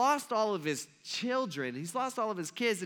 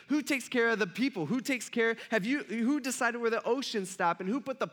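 raised-pitch volley of challenging questions; peppering with questions; 5 semitones higher than usual. Acted. God grilling Job with unanswerable questions, peppering him. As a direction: pile question on question, insistently. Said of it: "He just peppers them with all these questions".

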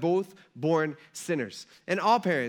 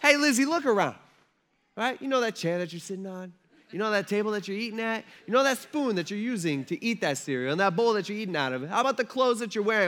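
a raised, lecturing dad voice; dad talk; 5 semitones higher than usual. Retold or imitated. Father lecturing daughter Lizzie about who owns things, raised voice. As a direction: lay down the law to your kid. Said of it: "the dad talk".

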